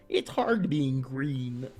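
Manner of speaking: slow puppet-frog voice; Kermit the Frog. Acted. Streamer trying Kermit's line, slow put-on voice. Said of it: "that's not Kermit, but, you know".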